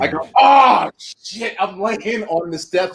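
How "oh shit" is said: high loud scream of pain; retold scream. Wrestler collapsed on the steps, screaming. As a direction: cry out high, then trail into a hiss. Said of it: "like, screaming".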